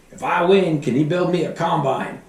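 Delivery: high, loud, hopeful ask; voicing the bidder. The farmer bidding asks for a combine, high eager voice. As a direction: put on the eager farmer hoping to win.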